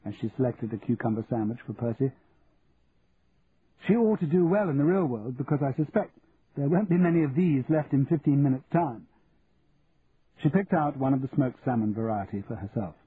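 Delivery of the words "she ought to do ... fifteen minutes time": lightly voiced, slightly raised society chatter; a touch of breezy approval; society Daphne, complimentary. Daphne choosing sandwiches with Becky's mother, breezily approving.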